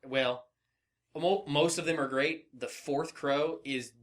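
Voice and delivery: normal talking voice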